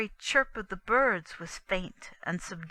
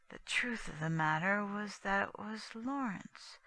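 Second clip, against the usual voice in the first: ordinary delivery, nothing marked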